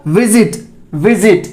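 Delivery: विजिट said with Z, "vizit"; correct Z sound. Shown as a demonstration. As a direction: model विजिट twice, slowly, as विज़िट. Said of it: "और ये क्या हो जाएगा?". (विजिट में ज़ की ध्वनि)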